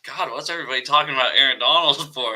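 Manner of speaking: fast, rising excited aside; excited inner thought. Retold or imitated. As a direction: gush about him. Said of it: "I'd always think".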